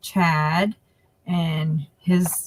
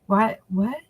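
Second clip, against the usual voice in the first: puzzled; 3 semitones higher than usual. Retold or imitated. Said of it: "So I was like".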